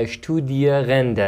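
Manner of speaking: اشتودیرنده said slowly as a model; careful teacher's example of the German word; pronunciation demo. Shown as a demonstration. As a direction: sound out اشتودیرنده syllable by syllable.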